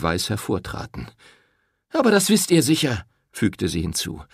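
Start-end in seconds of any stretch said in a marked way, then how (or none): 1.9-3.1 high, loud furious reproach; angry accusation. A narrator's reading. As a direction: shame him to his face. Woman confronting the priest.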